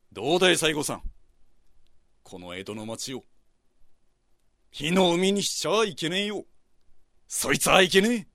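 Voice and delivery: brisk Edo swagger, quick lines; Edo townsman voice. Acted. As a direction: play Katsu as a blunt Edo man. Katsu voiced in story.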